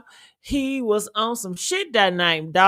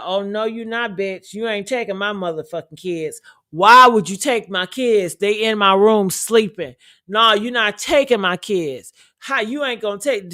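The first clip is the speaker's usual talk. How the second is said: retelling Ray J yelling at Princess, louder and angry; angry shouted threat; 4 dB louder than usual. Retold or imitated. Ray J yelling at Princess in an argument, angry shout. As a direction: bark it like a furious boyfriend.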